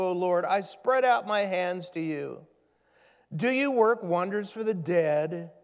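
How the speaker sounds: steady, earnest reading of a lament; scripture reading. Acted. Pastor reading the psalmist's lament to the congregation, earnest. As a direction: read the psalm out with weight. Reads the psalm's questions aloud.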